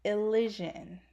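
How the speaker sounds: "Elysian" said ih-LIZH-un; correct pronunciation. Shown as a demonstration. Explaining the channel name to viewers, clear pronunciation of "Elysian" as ih-LIZH-un. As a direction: say "Elysian" with a short i and zh. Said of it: "it's pronounced".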